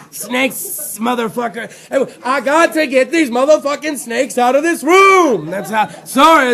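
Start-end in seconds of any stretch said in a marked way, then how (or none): 0.1-5.5 lightly voiced movie tough talk; hammed-up impression, stretching the end; Samuel L. Host mimicking film actor about snakes, hammed-up impression. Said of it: "there's a Samuel L on that".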